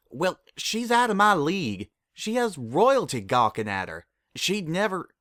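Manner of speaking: a flustered farm mare protesting; flustered Applejack. A narrator's reading. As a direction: blurt it out in a high, embarrassed rush.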